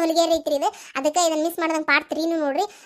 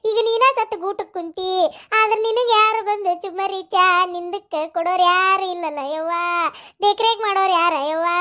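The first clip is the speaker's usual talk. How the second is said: sing-song funeral lament, hammed up; mock grieving wail. Hungry mourner lamenting that nobody will serve tea now, mock wailing. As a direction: wail each phrase out in exaggerated grief. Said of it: "ಯಾಕೆ ದುಃಖ ಮಾಡ್ಕೊಳಕತ್ತಿ".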